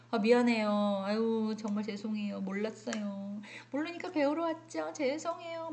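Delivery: polite apology. Retold or imitated. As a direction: apologize gently to the teacher. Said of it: "톤이 어땠어요? 앞에 거랑 뒤에 거랑?". (공손하고 부드럽게 사과하듯)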